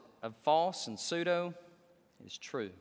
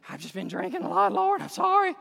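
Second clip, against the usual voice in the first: mock tipsy whine, rising higher; drunk backslider; 5 semitones higher, 4 dB louder than usual. Preacher mocking a drinker who keeps sinning, hammed-up drunk whine. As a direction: play a sloppy drinker begging the Lord. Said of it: "You don't keep saying".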